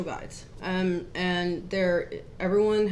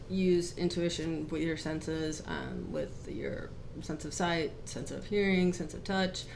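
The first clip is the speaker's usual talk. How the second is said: really quiet; 6 dB quieter than usual. Real, not acted. Co-host recapping last week's lesson, really quiet. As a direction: keep the volume right down as you explain. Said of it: "you're talking really quiet".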